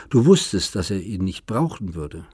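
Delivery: bitter repeated charge, voice swelling; rising accusation. Acted. Daughter repeats accusation louder.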